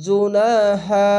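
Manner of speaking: ইউসল্লু slow, the vowel held one beat; one-beat stretch. Shown as a demonstration. Teacher reciting for the class, slow stretched reading. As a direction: draw out ইউসল্লু slowly. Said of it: "এক আলিফ টেনে পড়বেন".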